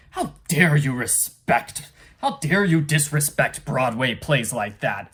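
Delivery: hammed-up cry of offence at the insult to Broadway; indignant outburst. Clifford scolds Piggy over Broadway, in slow mock outrage. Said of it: "and Clifford's like".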